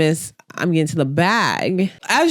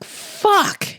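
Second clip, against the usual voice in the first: very high-pitched mock panic; mock freaking out. Imitating Hannah panicking over her rival, high mock freak-out. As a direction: squeal it like a hammed-up freak-out. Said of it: "Hannah immediately starts freaking out".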